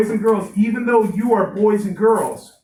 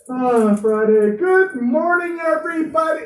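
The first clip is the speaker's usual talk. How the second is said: cheerful teacher; 10 semitones higher, 4 dB louder than usual. Acted. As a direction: greet the class brightly, stretching the words. Teacher greets the class.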